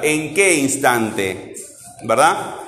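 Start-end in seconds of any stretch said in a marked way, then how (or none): 0.0-1.5 slow, drawn-out questioning of qué; slow, deliberate teacher question. Shown as a demonstration. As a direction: ask it slowly, leaning on qué. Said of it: "Yo tengo que volver a preguntar".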